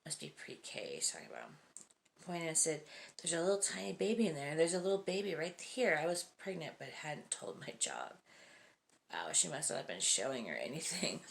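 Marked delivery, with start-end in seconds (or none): 3.2-6.0 put-on excited child. Child pointing at pregnant belly.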